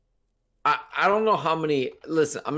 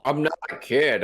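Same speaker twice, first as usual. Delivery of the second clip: mouth full. Real, not acted. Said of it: "talking with your mouth full".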